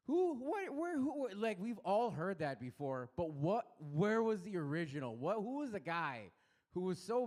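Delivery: high, loud bewildered questions; high, loud incredulous rant. Real, not acted. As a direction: demand answers in disbelief. Comic ranting question to crowd.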